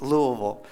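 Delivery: Louisville run together as "LOO-uh-vul"; local Louisville pronunciation. Shown as a demonstration. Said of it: "If you live in Kentucky, it's pronounced".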